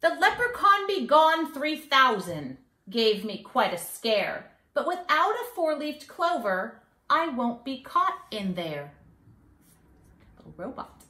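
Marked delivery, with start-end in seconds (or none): 0.0-8.9 lively storybook leprechaun, higher and bouncy; sing-song rhyme for kids; mischievous leprechaun. Acted. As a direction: read it like a cheeky little leprechaun bragging.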